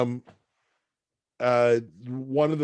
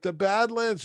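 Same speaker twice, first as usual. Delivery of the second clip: puzzled echo; 10 semitones higher than usual. Retold or imitated. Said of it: "And I'm like".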